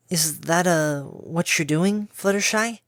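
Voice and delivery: put-on high, halting young filly; unsure how to ask; hesitant filly voice.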